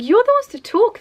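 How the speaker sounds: high, loud throwback of a compliment; incredulous retort. Retold or imitated. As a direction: exclaim it in mock protest. Throws the compliment back in retelling.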